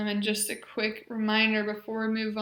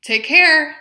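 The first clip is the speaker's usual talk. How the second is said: each phrase spoken much louder and clearly; modeled phrases; 2 semitones higher, 10 dB louder than usual. Shown as a demonstration. Therapist modeling functional phrases for the patient, loud and clear. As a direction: project every phrase for the patient to copy. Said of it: "So I will say the phrase".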